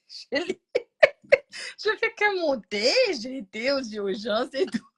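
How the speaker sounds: aigu, entrecoupé de rires; en riant. Real, not acted. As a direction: raconter en éclatant de rire. Rit en racontant. (récit haché de rires aigus)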